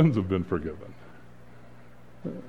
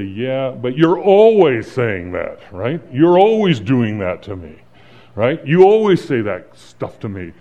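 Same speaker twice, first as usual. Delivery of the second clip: mock-irritated husband; exasperated retort; 6 dB louder than usual. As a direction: throw her words back at her, annoyed.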